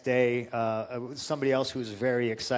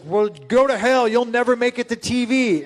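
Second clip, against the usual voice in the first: mock angry yell; 8 semitones higher, 8 dB louder than usual. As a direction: bark it at him in retold anger. Tony Atlas telling him off.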